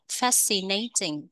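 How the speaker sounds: Fascinating stressed on "FAS", FAS-ci-na-ting; slow model Fascinating, hit the first syllable. Shown as a demonstration. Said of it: "Nhấn âm một". (nhấn âm một: FAS-ci-na-ting)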